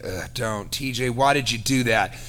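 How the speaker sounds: a quiet, weary scold from a friend; imagined Kate groaning. Retold or imitated. Kate in his head scolding T J, a soft disappointed groan. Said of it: "Kate being like".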